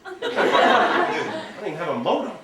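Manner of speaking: slow, laughing confession; laughing technophobe. Retold or imitated. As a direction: laugh through the helpless admission. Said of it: "the ones who are going like".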